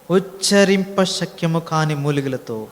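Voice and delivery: "ఉచ్చరింప శక్యము కాని మూలికలతో" spelled out slowly; slow recitation. Shown as a demonstration. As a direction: dwell on each word of the phrase. Slowly reciting key verse phrase. (నెమ్మదిగా ఉచ్చరించడం)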